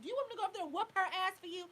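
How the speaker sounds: quick, high mock eager friend; friend's eager offer. Friend offering to fight the stepmom, fast and high. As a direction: rush it like a friend ready to fight. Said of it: "And she was like".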